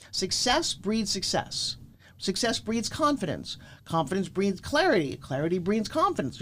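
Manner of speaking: deliberate chant of success mantras. Shown as a demonstration. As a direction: intone them like a creed. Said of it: "motivational slogan chain".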